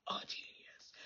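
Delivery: hushed awe; whispered. Real, not acted. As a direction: whisper a genius for effect. Whispered emphasis on genius.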